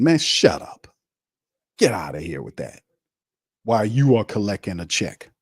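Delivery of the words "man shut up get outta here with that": breathy scornful whisper; dismissive whisper. Real, not acted. Brushing off the players' promise in a whisper. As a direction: hiss it dismissively.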